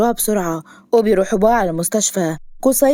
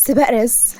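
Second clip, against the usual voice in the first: higher, eager heroine's announcement; excited pitched-up reveal; 4 semitones higher than usual. A narrator's reading. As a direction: announce it with keen enthusiasm. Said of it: "عيونها لمعت بحماس".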